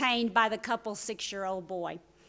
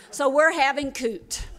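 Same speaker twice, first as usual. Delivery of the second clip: put-on excited child; 4 semitones higher, 7 dB louder than usual. Child retelling mom shouting.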